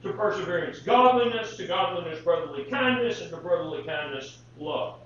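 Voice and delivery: measured, solemn reading of the passage; solemn Bible reading aloud; scripture reading. Acted.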